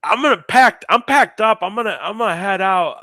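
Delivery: high, loud, hesitant mock politeness; awkward hinting. Musician hinting to the upset groom about pay, awkward high voice. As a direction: pitch it up awkwardly, halting between phrases.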